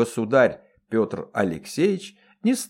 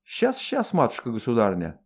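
eager to please. Acted. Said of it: "закивала Дунька".

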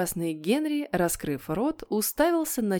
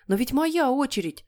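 put-on high childish protest; mild wail; 6 semitones higher than usual. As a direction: wail it a little, as a wronged kid. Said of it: "снова завопил Питер". (слегка вопя, по-детски высоко)

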